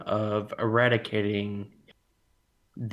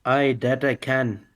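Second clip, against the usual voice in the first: put-on Irish accent. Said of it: "I can also do an Irish accent".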